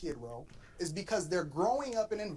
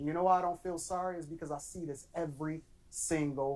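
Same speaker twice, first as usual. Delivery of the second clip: ordinary talk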